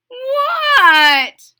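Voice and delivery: high loud mother voice; excited mother voice. Acted. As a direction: mum delighted by the smell.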